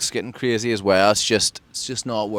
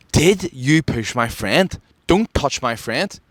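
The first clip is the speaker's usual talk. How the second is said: slow, drawn-out challenge, pitched up; retold confrontation; 4 semitones higher, slower than usual. Man comes right up to his face, confrontational. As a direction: imitate a man squaring up, word by word.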